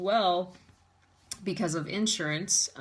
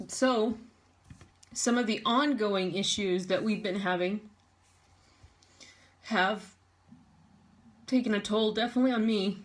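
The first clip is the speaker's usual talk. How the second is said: choked up; 2 semitones higher than usual. Real, not acted. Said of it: "trying to recompose myself".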